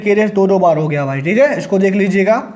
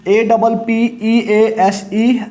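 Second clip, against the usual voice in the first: spelled out slowly; much slower than usual. Shown as a demonstration. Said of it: "spelling out the word".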